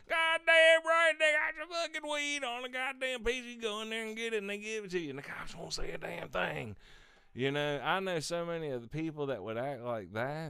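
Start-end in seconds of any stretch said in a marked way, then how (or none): 0.1-6.8 Holbrook impression. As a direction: hoot it like an excited stoner. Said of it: "Holbrook would have been like".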